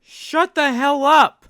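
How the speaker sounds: angry rebuke. Real, not acted. Angrily telling Violet off.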